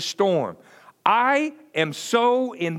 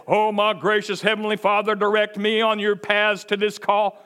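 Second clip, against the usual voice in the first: formal churchy prayer; 2 semitones higher, 3 dB louder than usual. Shown as a demonstration. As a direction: pray in mock-solemn King James style. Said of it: "I didn't say".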